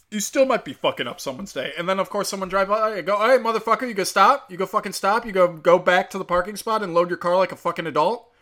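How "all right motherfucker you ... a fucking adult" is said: raised, heated commands; retold angry order. Bystander ordering a man to stop loading there, retold heated and raised. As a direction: re-enact laying into someone. Retold telling-off of a driver blocker.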